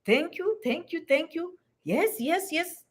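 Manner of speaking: just smile and say thank you; gently nodding along; polite smiling thanks. Shown as a demonstration. Mock polite smiling response.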